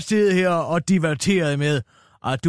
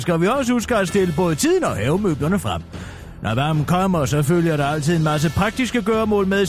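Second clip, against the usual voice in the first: news read. Acted. Reads a radio newscast.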